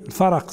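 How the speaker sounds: الفرق with a vowelled ra, "al-faraq"; fatha on the ra. Shown as a demonstration. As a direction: say الفرق in two syllables, "fa-raq". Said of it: "وحكى ابن الأثير أنه بالفتح".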